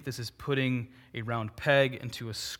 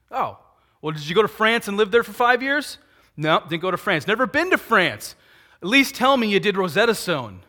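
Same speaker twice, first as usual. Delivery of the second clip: incredulous pastor; 6 semitones higher, 6 dB louder than usual. Retold or imitated. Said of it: "I'd be like".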